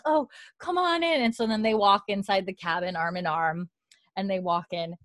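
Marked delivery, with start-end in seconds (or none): 0.1-1.2 imitated welcome, high-pitched; retold fond invitation, voice pitched up; Claire, welcoming. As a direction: usher an old friend in. Claire welcomes her old friend inside.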